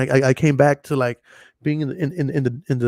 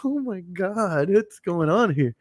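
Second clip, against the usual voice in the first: very slow, hushed disbelief; slowed, amazed murmur; stunned awe; 4 semitones higher, 4 dB quieter, much slower than usual. Retold or imitated. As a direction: drift through it, dazed. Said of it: "I'm like".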